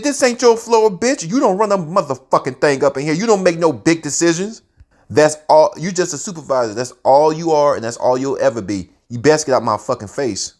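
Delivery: high, loud dressing-down; angry tell-off. Retold or imitated. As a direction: put him in his place. Jacob tells off supervisor.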